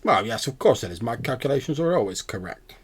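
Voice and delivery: lightly voiced scholarly owl, hesitant; pedantic owl. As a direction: explain like a self-assured owl professor. Game master plays the owl.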